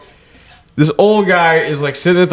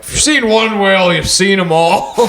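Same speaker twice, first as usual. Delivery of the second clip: put-on ornery old man; 4 semitones higher than usual. Old man dismissing the whale on the ferry, mock ornery delivery. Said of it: "the old man's just like".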